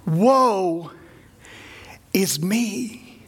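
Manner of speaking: breathy whispered lament, barely voiced; hushed woe. Isaiah before God, whispering his despair. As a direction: let the woe fall out in a hush. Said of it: "He says".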